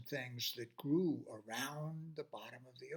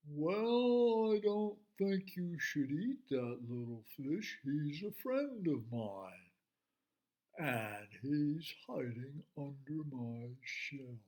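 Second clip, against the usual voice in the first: slow calm turtle; slower than usual. Acted. Turtle calmly refuses shark.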